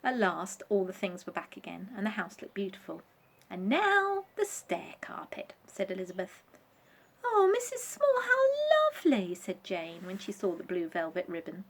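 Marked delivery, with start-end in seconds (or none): 3.5-5.5 slow, high whisper. Acted. Elizabeth's voice. 7.2-9.3 much higher, thrilled exclamation; delighted cry. Acted. Jane's delighted voice.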